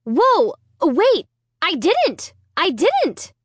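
high, panicked denial; frantic. A narrator's reading. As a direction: blurt it out in a panic. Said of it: "I cried frantically".

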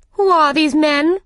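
high, loud, demanding question; imperious Queen. Acted. Queen demanding who the gardeners are, imperious. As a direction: demand it as an angry monarch.

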